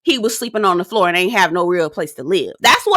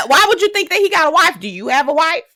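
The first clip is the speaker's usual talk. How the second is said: incredulous laugh; 7 semitones higher than usual. Real, not acted.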